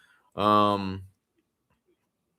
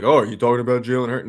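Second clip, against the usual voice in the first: mock chat taunt; 5 dB louder, faster than usual. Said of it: "it started off with, like".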